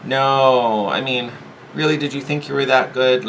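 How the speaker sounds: high, dismissive voice of self-doubt; nagging inner naysayer; inner saboteur voice. Acted. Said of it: "this is the voice that's saying".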